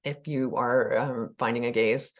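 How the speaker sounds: unhurried guiding voice with long pauses; calm meditation leader, letting phrases settle; guided meditation. Acted. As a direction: ease listeners into the body, leaving room to breathe.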